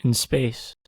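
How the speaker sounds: low, ominous movie trailer narration; horror trailer voice. Pretend. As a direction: read it like a horror movie tagline. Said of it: "John, do you wanna say it?".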